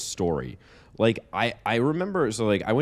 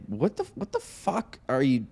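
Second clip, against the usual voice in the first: mock interviewer; 4 semitones higher than usual. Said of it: "I'd be like".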